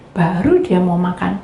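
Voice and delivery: ordinary delivery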